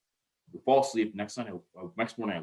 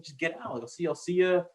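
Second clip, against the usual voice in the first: much higher, easygoing boss voice; imitating young boss; 9 semitones higher, 4 dB louder than usual. Boss telling intern to go out, mock high voice. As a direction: play the chill boss waving him off. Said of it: "He's like".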